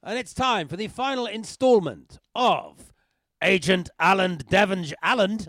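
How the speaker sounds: punchy announcer voice; voiceover. Acted. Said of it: "I'm a professional voiceover".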